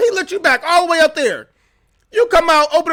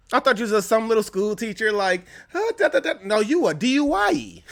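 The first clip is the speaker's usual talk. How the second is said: mocking laugh; 4 semitones lower, 5 dB quieter than usual. Mocking the driver's act.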